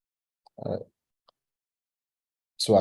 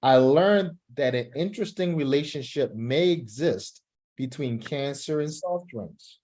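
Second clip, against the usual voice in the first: model reading; 2 semitones higher than usual. Shown as a demonstration. Teacher reading the opening aloud as a model for the student. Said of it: "do it one more time".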